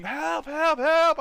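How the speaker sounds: high-pitched imitation of calling out; high mock cries for help; mimicked help cries. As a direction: call for rescue in a high voice.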